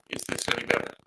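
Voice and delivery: robot voice over a breaking mic; words cut up by a bad mic; glitchy mic. Real, not acted. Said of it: "it sounds, like, really poppy and weird".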